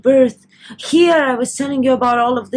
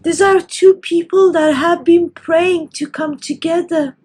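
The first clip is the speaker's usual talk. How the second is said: higher, voice lifted with real emotion; tearful and moved; 4 semitones higher than usual. Real, not acted. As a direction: speak through welling tears of joy. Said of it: "I became so overly emotional".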